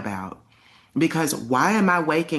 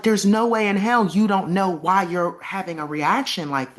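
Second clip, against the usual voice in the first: higher, exasperated mother's voice, imitated; frustrated mom; 6 semitones higher, 4 dB louder than usual. Mom on the phone losing patience with her panicking daughter, higher and exasperated. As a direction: play the fed-up mom who can't believe it. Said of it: "she's getting frustrated".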